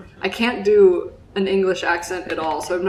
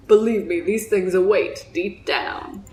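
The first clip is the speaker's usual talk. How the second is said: lightly voiced Southern old salt of a fisherman; Southern accent, telling a grave sea tale. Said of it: "that's my Southern accent".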